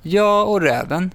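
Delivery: put-on boy answering dad with a mystery; mysterious. A narrator's reading. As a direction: say it like a secret. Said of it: "säger Robin gåtfullt".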